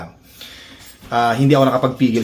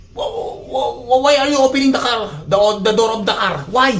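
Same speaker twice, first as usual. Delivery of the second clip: much higher, halting pretend scolding; pitched-up mock anger at the thief; mock confrontation; 10 semitones higher than usual. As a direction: play-act catching a thief in broken English. Stammering at imagined thief.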